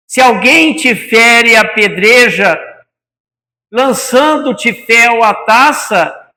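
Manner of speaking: slow, measured poetic reading; poem recitation. Acted. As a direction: recite it slowly with solemn weight.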